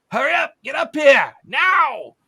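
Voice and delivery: loud, high-pitched shout; urgent yelling. Acted. Game master as someone yelling from an opened hatch, urgent shout. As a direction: yell down to hurry them up. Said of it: "there's someone yelling".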